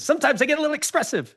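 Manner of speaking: high, fast New York Jewish accent; quick, singsong Jewish accent. Shown as a demonstration. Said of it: "That was more like a Jewish guy".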